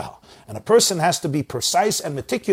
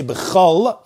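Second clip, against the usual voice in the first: b'chol drawn out on L, then a break; pause after b'chol; 3 semitones higher, 3 dB louder than usual. Shown as a demonstration. Teacher showing a tiny break, pause after b'chol. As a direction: finish b'chol slowly and stop. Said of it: "take a tiny break".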